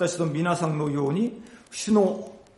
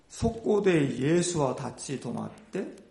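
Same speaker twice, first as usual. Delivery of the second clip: ordinary talk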